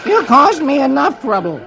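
cartoon soldier annoyance; grumbling Beetle. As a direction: toss it away in disgust. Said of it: "tosses the doll".

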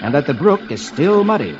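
serious adventure storytelling; dramatic narration. A narrator's reading. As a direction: narrate the chase gravely.

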